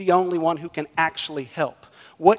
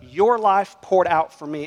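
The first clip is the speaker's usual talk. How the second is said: "Your" pressed, the phrase said slowly; slow stress on your; 5 dB louder, slower than usual. Shown as a demonstration. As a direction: drag it out, leaning on "Your". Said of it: "That's Jesus's ethic".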